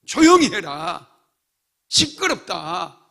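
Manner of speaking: slow, loud scolding hush; slow stern rebuke. Acted. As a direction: crowd telling the beggar to shut up. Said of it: "야단을 칩니다".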